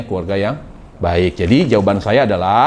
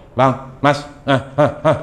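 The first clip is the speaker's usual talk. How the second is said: mock cooing wife; 2 semitones higher than usual. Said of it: "Kenapa nggak mendayu-dayu".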